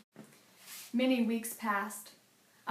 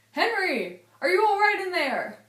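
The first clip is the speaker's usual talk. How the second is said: higher, louder calling through the box; 9 semitones higher, 8 dB louder than usual. Acted. Friends in Philadelphia calling in to Henry. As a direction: call through the lid, concerned.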